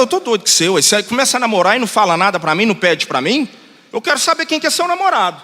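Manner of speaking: indignant demand, half in jest; mock scolding. Pastor teasing a girl about her secret boyfriend, mock scolding.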